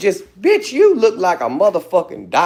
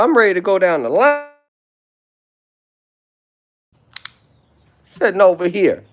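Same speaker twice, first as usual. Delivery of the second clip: angry rant; 6 semitones higher than usual. Real, not acted. Ranting insults at a rival on live.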